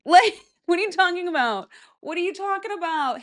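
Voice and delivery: high, incredulous disbelief; baffled. Real, not acted. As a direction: ask it in total confusion. Baffled reaction to quote.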